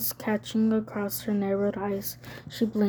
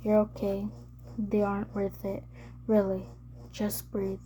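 whispering; 5 dB quieter than usual. Acted. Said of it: "he whispered".

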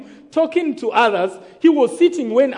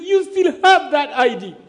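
higher, urgent retold alarm; acted alarm in a raised pitch; terrified friend; 4 semitones higher, 3 dB louder than usual. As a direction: imitate a frightened friend. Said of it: "Vincent was terrified".

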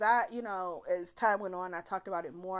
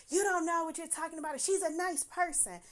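mock angry defense; 7 semitones higher than usual. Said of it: "So he gets mad and tell".

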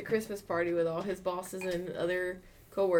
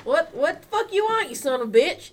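loud, high redneck southern imitation; southern redneck accent; 8 semitones higher, 7 dB louder than usual. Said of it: "All southern slash redneck".

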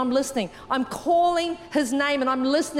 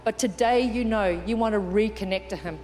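gently lowered, reverent invitation; altar call; 4 semitones lower than usual. Real, not acted. Leads an altar call, eyes closed.

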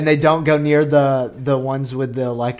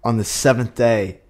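solemn scripture; 5 semitones lower, slower than usual. Acted.

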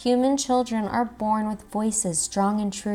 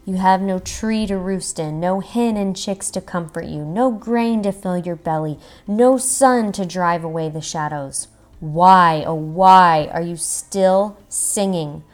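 pleading; 5 dB louder than usual. Acted.

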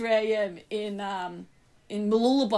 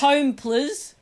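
laughing while quoting; 5 semitones higher, 5 dB louder than usual. Retold or imitated.

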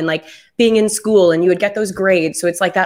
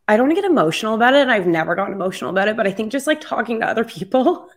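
teary; 2 semitones higher, much faster than usual. Real, not acted. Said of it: "Sorry for, like, being teary".

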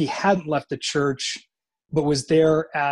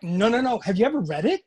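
insistent mom; 6 semitones higher, faster than usual. Retold or imitated. Mother pressing her son, retold.

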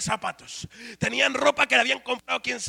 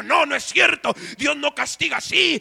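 mildly raised angry retort; the husband protesting, a bit louder; angry husband snapping back at the preacher, lightly acted; 3 semitones higher, 4 dB louder than usual. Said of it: "el esposo se enojó y me dijo".

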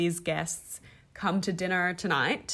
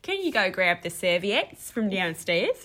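1 mock Australian accent; slower than usual. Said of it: "That's the Aussie in her".

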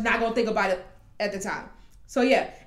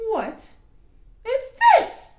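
surprised; 13 semitones higher, 6 dB louder than usual. Acted. Crowd reaction to a masked figure.

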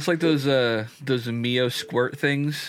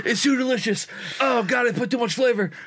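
laughing; 11 semitones higher than usual. Real, not acted. Laughing at the strong drink.

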